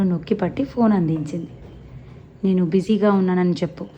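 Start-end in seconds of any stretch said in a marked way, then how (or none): 2.4-3.8 irritably. Acted. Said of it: "చిరాగ్గా అన్నాడు".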